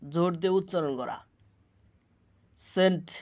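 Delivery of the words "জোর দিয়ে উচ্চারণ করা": জোর দিয়ে উচ্চারণ করা rattled off fast and softer; quick repeat. Shown as a demonstration. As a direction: rush through জোর দিয়ে উচ্চারণ করা the second time. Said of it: "repeated meaning line".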